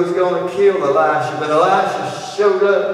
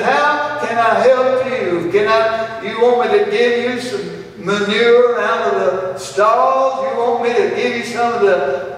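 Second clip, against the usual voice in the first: exasperated king; 7 semitones higher, 4 dB louder than usual. Acted. Preacher voicing the king scoffing at the woman, loud. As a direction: throw the offer back at her with scorn.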